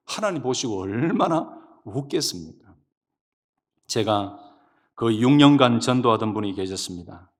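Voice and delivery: ordinary talk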